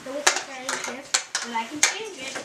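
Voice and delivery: good fairy reassuring the court; lightly voiced good fairy. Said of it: "The good fairy said".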